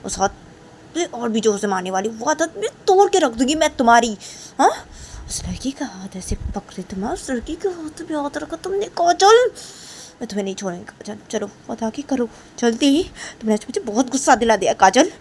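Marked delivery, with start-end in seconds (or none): 0.0-4.7 louder stern threat; teacher Rishi threatening to hit harder, angry. Acted. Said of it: "ऋषि बोलती". 7.0-15.1 angry teacher. Acted. Teacher angrily threatens Kajal.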